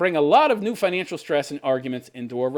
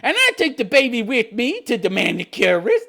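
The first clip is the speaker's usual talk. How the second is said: mock entitled mom; 2 semitones higher, 3 dB louder than usual. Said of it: "wow, I love this".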